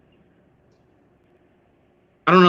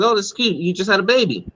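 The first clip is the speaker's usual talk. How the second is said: higher, sing-song host voice; mimicking the host; 5 semitones higher than usual. Mocking the dating show host, higher and sweet. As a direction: imitate a cooing talk show host. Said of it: "she's like".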